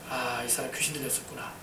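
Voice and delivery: low, soft thinking aloud; quiet realisation. Retold or imitated. Preacher recalling his thought about the person who spat, hushed realisation. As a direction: murmur it to yourself as it dawns.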